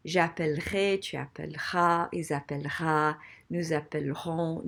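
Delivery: "appellerai" with the middle E before the R dropped; swallowed E. Shown as a demonstration. French teacher showing future forms, swallowing the E before R. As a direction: say "appellerons" with no vowel between L and R. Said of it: "I'm swallowing that E".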